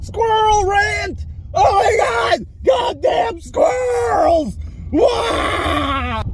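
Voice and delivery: mock wailing tantrum about squirrels; theatrical cry-yell ending in a fake wail; squirrel rant. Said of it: "I'm gonna rant about squirrels".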